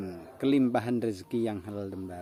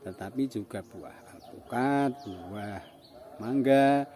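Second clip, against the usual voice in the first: talking with a cigarette in his mouth; slower than usual. Real, not acted. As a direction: speak around a cigarette between puffs. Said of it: "sambil ngerokok".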